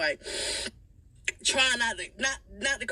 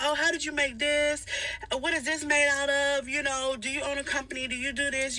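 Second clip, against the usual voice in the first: higher, overly polite customer questions; fake concerned customer; 5 semitones higher than usual. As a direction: act like a curious stranger. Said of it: "I'm like".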